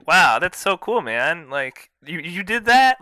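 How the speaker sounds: imitating a wowed big guy, voice jumping up; impressed awe. Fan retelling Brawler falling for Hoodlum's brags, impressed awe.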